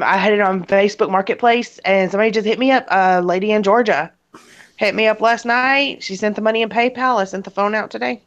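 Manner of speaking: stuffy, sniffly voice from allergies; talking through sniffles and a blocked nose; sniffling. Real, not acted. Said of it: "y'all got to excuse the sniffling and the coughing".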